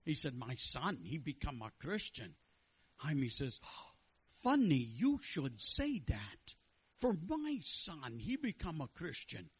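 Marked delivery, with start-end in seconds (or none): 0.4-2.3 lightly voiced Jewish father's accent; storyteller imitating a Jewish accent. Father confiding in his friend, Jewish accent. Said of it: "with his Jewish accent". 4.4-9.5 put-on slow, drawn-out Jewish accent with swooping pitch; comic, stretched-out Jewish accent. Friend answering a worried father, slow Jewish accent. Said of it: "with his Jewish accent".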